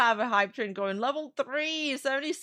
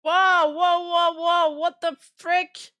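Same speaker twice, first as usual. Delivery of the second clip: surprised whoa; 4 semitones higher, 5 dB louder, slower than usual. Real, not acted. Surprise at gifted subs.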